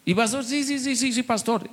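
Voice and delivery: high, soft nervous brother; timid churchgoer. Retold or imitated. Brother nervously answering the pastor. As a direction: squeak out a timid yes to the pastor.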